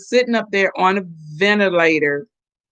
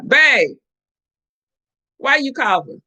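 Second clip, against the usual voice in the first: lightly voiced worried wife, higher; a hint of asking her husband anxiously; mild mock alarm at a cough; 6 semitones higher than usual. Voicing worried quote to husband.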